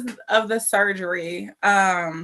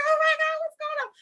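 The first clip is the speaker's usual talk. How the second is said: very high, squeaky mock panic; imitated alarm; faster than usual. Husband alarmed by his wife's prank, high-pitched mock panic.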